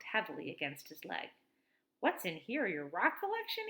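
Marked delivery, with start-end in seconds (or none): 2.0-3.7 teasing. Acted. Walker teasing.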